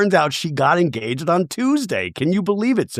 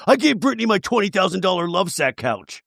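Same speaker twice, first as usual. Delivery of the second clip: lightly mocking reality-star boast; a bit higher, hint of a put-on brag; Jax Taylor impression; 5 semitones higher than usual. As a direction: mimic a man bragging about his money. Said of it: "He's like".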